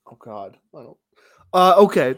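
ordinary talk, nothing marked

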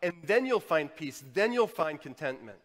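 loud, insistent preacher's delivery; forceful preaching. Acted. Preacher urging listeners to transcend possessions, forceful preaching. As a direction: drive each phrase home loudly.

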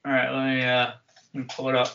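talking around a paintbrush; words slurred by a brush held in teeth; paintbrush in mouth. Real, not acted. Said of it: "got a paintbrush in my mouth".

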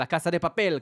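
Argentine Spanish with a plain s in Casa; Argentine Spanish accent. Shown as a demonstration. Showing how it should be said, Argentine Spanish accent. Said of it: "בספרדית של ארגנטינה".

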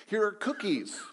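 high, loud storybook call; loud shout. A narrator's reading. Frog calling birds to the cookies, loud shout. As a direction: holler out to the birds. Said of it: "shouted in a loud voice".

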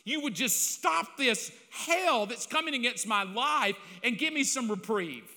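begging God for relief; frustrated plea. Retold or imitated. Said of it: "I even said".

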